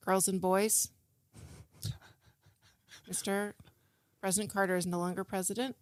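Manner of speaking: lightly voiced teacher breaking sad news; halting, with long pauses between phrases; kindergarten teacher. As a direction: carefully explain it to small children, subdued. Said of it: "my public kindergarten teacher trying to explain".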